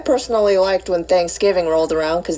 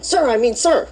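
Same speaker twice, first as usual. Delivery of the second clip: flustered correction; 5 semitones higher than usual. Acted. Cadet flustered correcting himself.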